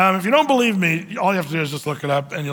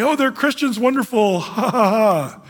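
higher, gushing mock delight with a laugh; naive gushing Christian; 3 semitones higher than usual. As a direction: play the gullible believer, chuckling. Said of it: "not just to say".

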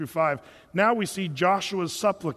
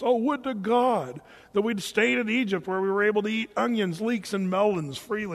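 mock murmuring. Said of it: "murmuring children of Israel".

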